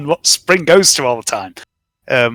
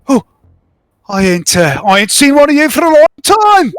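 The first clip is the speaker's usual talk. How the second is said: gruff shopkeeper greeting; 10 semitones higher, 4 dB louder than usual. Acted. GM voices Bears greeting player.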